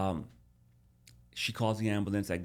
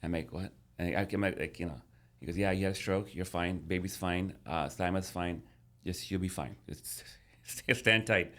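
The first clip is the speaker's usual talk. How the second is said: reassuring friend. Retold or imitated. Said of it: "he goes to me and goes".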